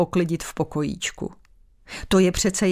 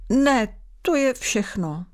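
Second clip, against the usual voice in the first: whiny; 5 semitones higher, slower than usual. Acted. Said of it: "zakňourala".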